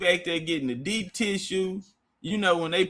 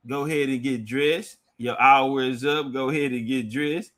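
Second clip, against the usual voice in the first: retold masseuse order; 6 semitones lower than usual. Masseuses tell client to dress.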